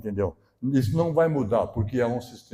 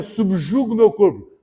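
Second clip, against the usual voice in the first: solemn quote; 6 semitones higher, 7 dB louder, slower than usual. Retold or imitated. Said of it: "O apóstolo Paulo dizia".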